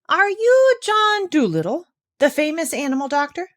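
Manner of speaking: a hint of a curious sea creature; lightly voiced shark. A narrator's reading. Shark asking the doctor his name, lightly voiced.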